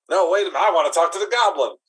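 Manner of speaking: excited outburst. Acted. Sudden change of mind.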